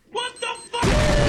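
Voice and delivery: very high, drawn-out slow disbelief; stunned disbelief. Real, not acted. Reacting to the clip, a slow, very high disbelieving what. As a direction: let it stretch out in shock. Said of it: "reacting to asparagus line".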